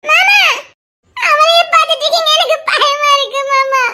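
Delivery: high, tearful jealous plea; tearful pleading. Acted. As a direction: beg uncle to look at you instead. Girl jealous, scared, pleading. (கண்ணீருடன் கெஞ்சல்)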